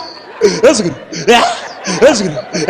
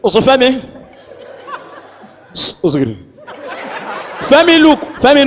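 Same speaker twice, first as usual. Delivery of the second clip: annoyed call. Retold or imitated. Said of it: "with annoyance".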